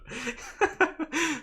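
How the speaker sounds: loud, high-pitched laughing fit. Real, not acted. Laughing at requests for Trump impression.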